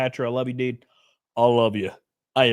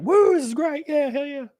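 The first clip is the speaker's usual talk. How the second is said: imitating Melanie; 13 semitones higher than usual. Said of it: "She was like".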